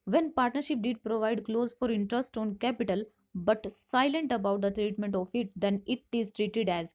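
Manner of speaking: reading the question out slowly; measured, deliberate classroom read; slow quiz reading. Shown as a demonstration. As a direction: spell out each option for students. Reads option text slowly.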